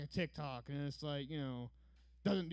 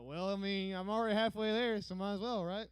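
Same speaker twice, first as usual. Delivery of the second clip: eager reply; 5 semitones higher, 7 dB louder than usual. Retold or imitated. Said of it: "I'm like".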